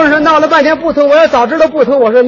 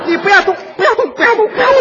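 nervous nurse; 9 semitones higher, faster than usual. Retold or imitated. Nervous nurse aiming the needle.

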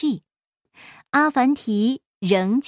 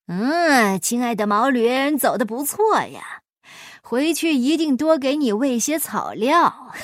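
mocking. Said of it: "关老爷嘲弄阿凡提".

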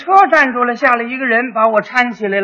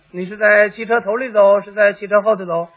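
measured, slightly softer officer's questioning; lightly voiced policeman probing the story; 3 semitones lower, 4 dB quieter than usual. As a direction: calmly lay out the two choices. Policeman calmly questions the rider.

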